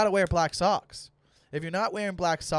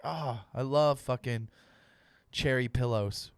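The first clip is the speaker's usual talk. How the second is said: savouring; 3 semitones lower, slower than usual. Retold or imitated. Acted savouring of a candle scent.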